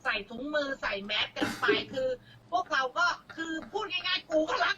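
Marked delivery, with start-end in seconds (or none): 2.5-4.8 laughing with a catch in the voice; half laugh, half cry; laughing, near tears. Real, not acted. Guest pleads with the crowd, laughing and near tears.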